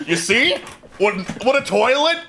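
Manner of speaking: lightly voiced mimic insisting; a hint of a pushy salesman. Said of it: "says the mimic".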